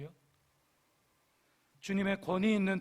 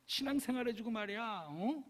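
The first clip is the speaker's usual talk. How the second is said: high-pitched mock-irritated nagging, building to loud orders; exasperated telling-off ending in a shouted command; annoyed scolding; 6 semitones higher, 4 dB louder than usual. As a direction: huff and scold in exaggerated annoyance. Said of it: "막 짜증내면서 막".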